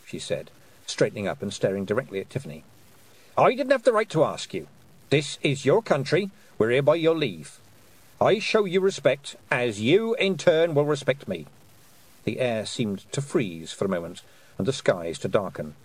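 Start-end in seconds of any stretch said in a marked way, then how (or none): 3.4-11.5 put-on formidable old witch giving a girl her due; stern witch voice. A narrator's reading. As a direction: lay down the law with solemn respect. Weatherwax grandly yields respect.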